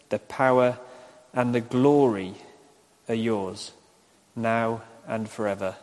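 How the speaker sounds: measured congregational prayer, phrase by phrase; leading prayer. Real, not acted. Minister leading congregation in the Lord's Prayer, measured recitation. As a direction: recite solemnly with long pauses between petitions.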